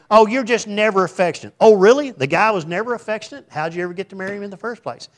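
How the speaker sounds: acted marital quarrel.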